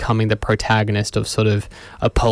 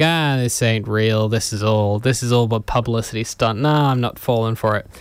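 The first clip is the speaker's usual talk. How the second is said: dry, serious. Retold or imitated. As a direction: imitate a dead-serious skeptic brushing it off. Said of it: "He's being real serious".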